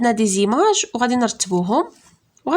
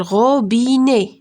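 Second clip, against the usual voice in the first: slow syllable reading. Shown as a demonstration. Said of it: "شحال فيها من سيلاب؟".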